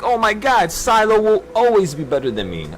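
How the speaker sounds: high-pitched mock lament; put-on wail of inferiority; mock despair. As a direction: play an awestruck, defeated admirer. Mocks imagined self-pitying listeners.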